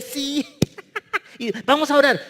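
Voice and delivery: high, giggly and lighthearted; jolly high-pitched mock laughter; laughing chatter. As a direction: imitate people cracking up before prayer. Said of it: "estaban riéndose".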